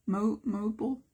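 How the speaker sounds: mobile as MO-bull, rising at the end; questioned pronunciation. Shown as a demonstration. Art teacher trying the word out for viewers, doubtful MO-bull. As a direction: test "mobile" with a short, swallowed second vowel. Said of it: "is that how you say it?".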